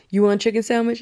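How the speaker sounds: lightly voiced fast food clerk; drive-thru worker. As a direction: ask it like a late-night drive-thru worker. Drive-thru worker in joke scene.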